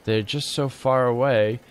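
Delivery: low solemn reading voice; mock-grave narration. Shown as a demonstration. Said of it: "I need a very solemn voice for reading".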